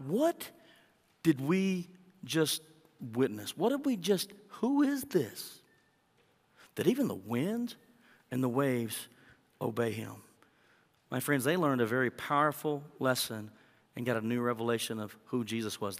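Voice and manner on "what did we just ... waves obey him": slow, high, stunned wonder; awestruck disciples. Acted. Disciples staring at Jesus after the storm, awestruck. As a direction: marvel at what you just saw. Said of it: "looking at him like".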